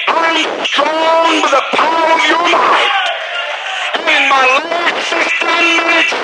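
slow, preached confession of strength; forceful declaration. Acted. Preacher models confessing strength to God, forceful drawn-out declaration.

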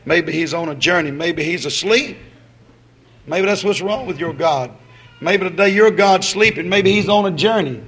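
mocking Elijah. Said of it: "He said".

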